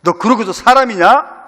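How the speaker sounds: mock scolding of Peter rising to a loud end; half-acted disappointed master; imagined rebuke. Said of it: "그런 말씀, 그럴 만도 하시잖아요". (실망한 주인의 꾸짖음 흉내)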